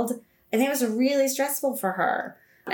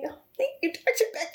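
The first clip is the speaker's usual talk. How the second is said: much higher, laughing mock gush; gushing thanks; 8 semitones higher, much faster than usual. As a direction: laugh through an over-the-top thank-you. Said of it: "And I was just like".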